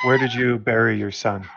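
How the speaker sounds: sharp shouted demand; shouted question. Acted. Adventurer shouting at the priest, demanding answers. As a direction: bark the question at him.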